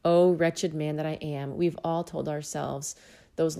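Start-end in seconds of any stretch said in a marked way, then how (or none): 0.1-1.6 lamenting cry. Retold or imitated. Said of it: "as Paul did here".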